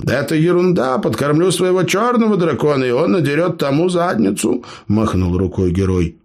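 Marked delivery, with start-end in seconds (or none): 0.0-4.7 high, bragging storyteller voice; boastful gnome. Acted. Gnome brags to clanmates, high boastful voice. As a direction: brag to the wide-eyed listeners.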